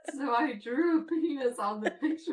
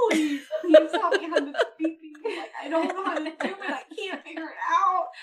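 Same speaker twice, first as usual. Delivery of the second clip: higher-pitched, laughing mock begging; pleading; 4 semitones higher, 3 dB louder, faster than usual. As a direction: imitate a mother begging for help. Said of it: "Pleading with us, like, pleading".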